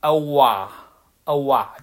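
awa drawn out slowly, two parts; Australian awa sound. Shown as a demonstration. Teacher demonstrating the Australian O vowel. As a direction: stretch awa like an Aussie O. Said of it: "它发成了".

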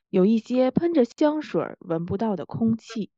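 polished announcer read; broadcaster voice. Shown as a demonstration. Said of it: "自带播音腔的晴晴 来引用重现一下".

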